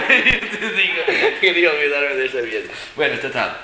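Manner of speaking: mucho más agudo y fuerte, entre carcajadas; riendo. Real, not acted. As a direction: dilo sin poder parar de reír. Cuenta la anécdota riendo. (riendo al recordar la fiesta que quería olvidar)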